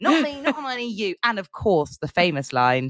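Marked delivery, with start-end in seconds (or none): 0.0-1.1 very high, terribly acted bad-child-actor delivery. Quoting a line from the films as Ron: imitating Ron's terrible child acting. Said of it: "Ron's trying to tell Harry".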